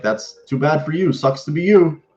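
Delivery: high, gloating taunt; mocking the rival fan. Real, not acted. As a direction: rub it in playfully.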